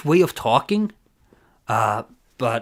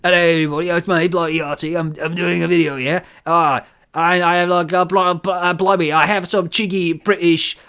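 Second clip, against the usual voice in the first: hammed-up British accent, higher-pitched; Yahtzee; 4 semitones higher, 4 dB louder than usual. Streamer mocking a British game reviewer, hammed-up British accent. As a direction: put on a bad, cheeky British accent. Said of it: "is Yahtzee one of the guys who talks like this".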